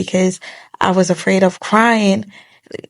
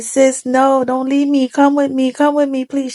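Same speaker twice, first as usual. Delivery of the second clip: higher, pleading with the sister not to leave; pleading through tears; 5 semitones higher than usual. Retold or imitated. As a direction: beg her to come back, voice pitched up and tearful. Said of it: "I kept crying and crying".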